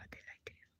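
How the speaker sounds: almost silent whisper of They lied to you; nearly inaudible whisper. Real, not acted. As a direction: breathe it out with no voice. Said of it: "I'm putting it very bluntly".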